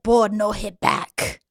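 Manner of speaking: mock Hong Kong accent, drawn-out words; Bruce Lee. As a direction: imitate Bruce Lee's broken-English delivery in an accent. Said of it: "But it's like Bruce Lee says".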